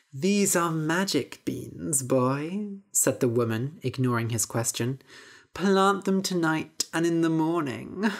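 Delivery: creaky voiced crone greeting; old witch. Witch greeting Jack at the market, witchy voice. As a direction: lure the boy in, witchy.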